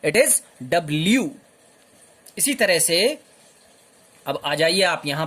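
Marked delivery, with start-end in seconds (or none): 0.0-1.3 डब्ल्यू said carefully as "double-u"; teacher models डब्ल्यू as "double-u"; correct letter name. Shown as a demonstration. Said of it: "no, it is not डब्ल्यू".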